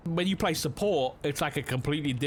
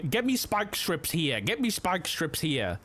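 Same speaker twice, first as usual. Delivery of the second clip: radio call; 3 semitones higher than usual. Retold or imitated. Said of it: "everyone's always like".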